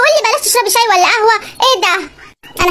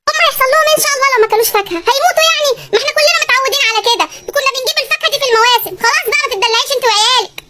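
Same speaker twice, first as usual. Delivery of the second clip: fast, higher, mocking husband brushing it off; scornful dismissal; 3 semitones higher than usual. Husband mocking wife's wish to buy fruit, fast and higher. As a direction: wave away her worry with scorn.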